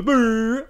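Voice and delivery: mock engine brr; engine rev. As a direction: buzz lips like a car engine. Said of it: "That's a good impression".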